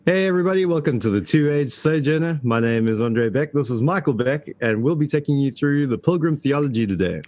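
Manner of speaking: hammed-up host welcome; mock formal podcast intro. Son mocking the formal show intro, upbeat announcer voice. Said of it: "it's like".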